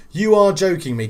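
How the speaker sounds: really can't believe it; real excited disbelief. Real, not acted.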